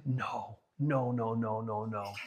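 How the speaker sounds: soft, near-whispered string of no; hushed repeated no. Acted. Preacher answering whether to keep sinning, hushed repeated no. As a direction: shake it off quietly, no after no. Answering "shall we continue to sin.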